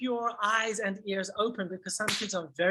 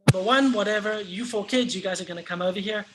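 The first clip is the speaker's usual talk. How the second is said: teacher voice. Shown as a demonstration. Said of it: "Then I'm gonna say".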